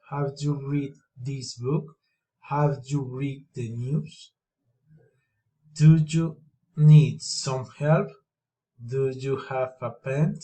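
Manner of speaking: each question climbs on its last word, "book", "news", "pen"; rising question tune. Shown as a demonstration. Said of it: "rising intonation".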